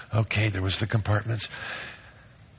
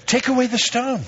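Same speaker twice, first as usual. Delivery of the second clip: commanding Jesus; 13 semitones higher than usual. Acted.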